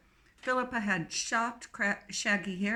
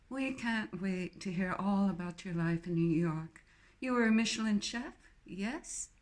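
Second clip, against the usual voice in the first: put-on posh English accent. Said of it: "Jane's accent was reminiscent of the Queen".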